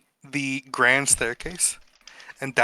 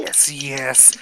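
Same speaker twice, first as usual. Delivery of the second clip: whispering. Acted. NPC hushed eager reply.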